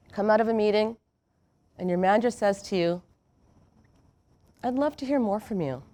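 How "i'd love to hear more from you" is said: softer, warm invitation; encouraging invitation. Retold or imitated. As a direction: make them feel wanted. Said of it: "Doesn't that sound and feel different?".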